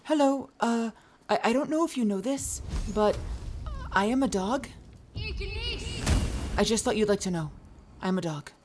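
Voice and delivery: high, soft voice for a sweet puppy. Retold or imitated. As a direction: play the dog sharing news with wide eyes. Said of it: "It was always like".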